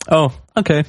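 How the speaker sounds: small, high, put-on voice; alternative reading. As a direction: lift it up into a rising question. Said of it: "Or was it more like".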